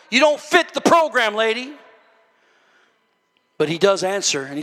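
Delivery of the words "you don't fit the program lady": mock church folk shooing someone off; raised voice dropping on the last word; dismissive. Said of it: "they wanna shoo her away".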